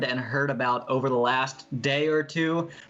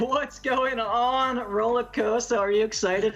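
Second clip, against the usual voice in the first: 1930s announcer; 8 semitones higher than usual. Acted. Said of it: "An excellent nineteen thirties announcer voice".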